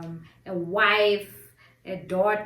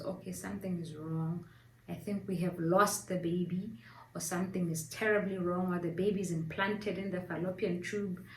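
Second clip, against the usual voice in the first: husband's worried thought; 2 semitones lower, 7 dB quieter, faster than usual. Retold or imitated. Husband fearing the worst as he walks in, softly worried. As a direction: drop to a soft, mildly worried murmur. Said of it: "his mind just went to the worst".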